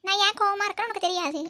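put-on hurt girlfriend lashing out; angry outburst. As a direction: snap at him for hiding it. Angry girlfriend confronts him.

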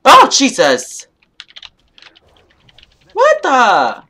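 sudden loud shocked cry; startled yell. Real, not acted. Gamer caught off guard by a blast, startled yell. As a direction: jump out of your skin and yell.

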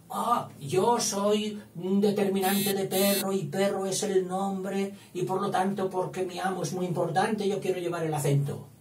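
high, self-important little voice; voiced determiner character. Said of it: "Vale, y él dijo".

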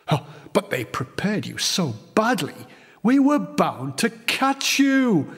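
a weary groan of regret. Acted. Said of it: "the Major groaned".

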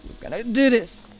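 pumped up. Real, not acted. Gamer psyching up before a jump, pumped.

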